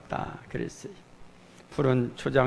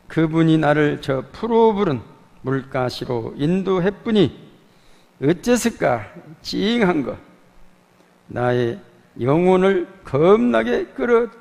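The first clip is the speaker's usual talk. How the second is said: loud, earnest Jeolla dialect recitation of the psalm; 전라도 사투리로 힘차게 낭독; Jeolla dialect reading; 3 semitones higher, 6 dB louder than usual. Pretend. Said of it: "방언으로 번역은 시편 이십삼 편을 한번 준비를 해봤어요".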